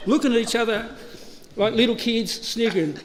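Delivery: giggling through it; amused retelling with a laugh. Real, not acted. Laughing while telling.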